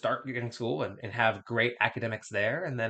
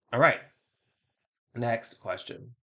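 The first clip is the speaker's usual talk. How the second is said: slow, drawn-out robot voice; slower than usual. Acted. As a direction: announce it like a slow machine. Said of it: "the robot voice thing that I'm doing".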